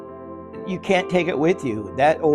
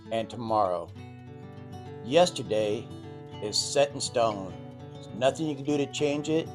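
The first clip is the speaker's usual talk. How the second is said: soft, calm and sincere words; gentle reflective advice; 6 dB quieter than usual. Acted. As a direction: ease into a quiet, tender reflection. Reflective talk over music.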